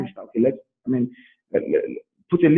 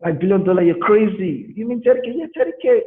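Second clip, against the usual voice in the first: mock amazement; 5 semitones higher, 3 dB louder than usual. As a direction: stretch the oh my God in shock. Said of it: "You say".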